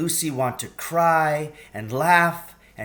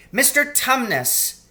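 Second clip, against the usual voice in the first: bawling; 12 semitones higher, 4 dB louder than usual. A narrator's reading. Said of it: "bawled Lucy in his ear".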